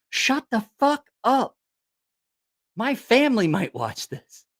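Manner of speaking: high-pitched protest from an embarrassed friend; mock outrage. Old friends begging him to stop telling stories, mock outrage. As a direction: put on an indignant friend's objection.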